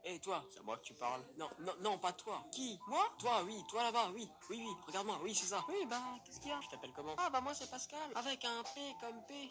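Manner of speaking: a hint of a silly high character voice; lightly voiced goofy Pascal.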